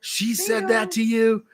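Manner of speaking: imitating her brother. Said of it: "her brother asks".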